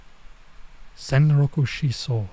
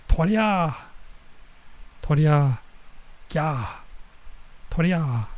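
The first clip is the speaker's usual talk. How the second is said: excited shouts; 3 semitones higher, slower than usual. Retold or imitated. Girl leaps over shouting.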